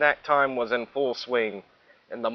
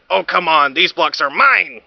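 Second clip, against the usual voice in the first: dismissive; 4 semitones higher, 6 dB louder than usual. Acted. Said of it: "The Minosaur said".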